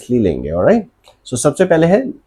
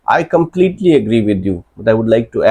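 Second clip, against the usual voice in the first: slow model phrase; much slower than usual. Shown as a demonstration. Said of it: "model debate phrase".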